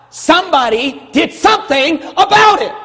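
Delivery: high, loud triumphant shout; preaching shout. Real, not acted. Preacher triumphantly shouting to the church, high and loud. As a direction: shout the point home.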